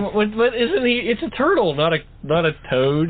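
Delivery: high, agitated protest; indignant. Real, not acted. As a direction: protest in disbelief. Indignant correction, turtle not toad.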